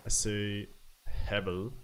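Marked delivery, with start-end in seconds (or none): 1.1-1.7 Hebel said HAV-el, with a short first vowel. Shown as a demonstration. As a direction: say Hebel like "have" plus "el". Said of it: "with a short A sound".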